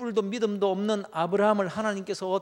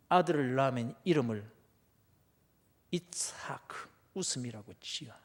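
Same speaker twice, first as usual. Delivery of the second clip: quiet; 6 semitones lower, 3 dB quieter than usual. Acted. God's quiet naming command.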